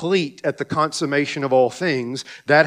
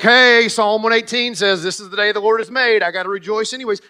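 sarcastic chirpy; 5 semitones higher, 4 dB louder, faster than usual. Pretend. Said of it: "I'm being sarcastic".

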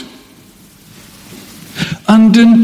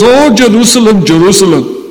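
note of pathos; 3 semitones higher, faster than usual. Acted. Preacher quoting Jesus looking upon Jerusalem, a cry of pathos. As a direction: cry out the first name, drop on the second. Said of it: "note of pathos".

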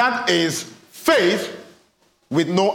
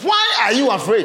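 ask your neighbor; 2 semitones higher than usual. Shown as a demonstration. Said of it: "Turn to your neighbor".

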